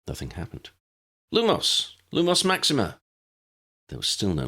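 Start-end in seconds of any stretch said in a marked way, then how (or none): 1.3-3.0 rising panic, spell shouted; urgent spell. Acted. Spell fails, tries harder.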